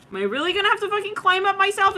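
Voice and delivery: high, quick comic whine; mock indignant complaint. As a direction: complain in hammed-up disbelief. Acted complaint of abandoned person.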